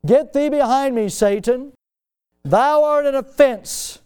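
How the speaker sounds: booming scripture reading; thundering rebuke. Acted. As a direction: preach the rebuke at full force. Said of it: "verse twenty-three".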